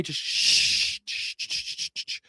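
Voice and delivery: unvoiced, soft shushing. Shushing religion to keep quiet.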